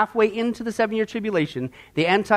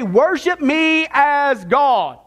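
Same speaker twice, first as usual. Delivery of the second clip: slow, drawn-out, raised-pitch command; Antichrist; 5 semitones higher, 3 dB louder, much slower than usual. Acted. Preacher voices the Antichrist demanding worship, slow and commanding. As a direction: stretch each word like a demand for worship. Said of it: "the Antichrist is going to do".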